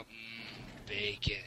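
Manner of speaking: slow, drooling "mm, bacon"; Homer Simpson. Retold or imitated. A friend showing how he'd say bacon, slow drooling. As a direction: savour it like a hungry cartoon dad. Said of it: "Homer Simpson style".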